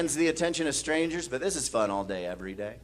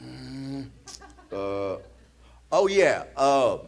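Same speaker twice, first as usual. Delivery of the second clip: put-on drunk man; 2 semitones higher, slower than usual. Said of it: "He's like".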